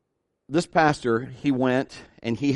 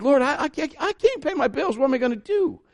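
pleading; 11 semitones higher than usual. Retold or imitated. Evangelist argues with the Lord.

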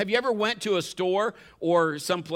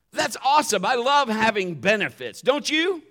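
excited; 5 semitones higher, 6 dB louder than usual. Real, not acted. Preacher rousing the congregation.

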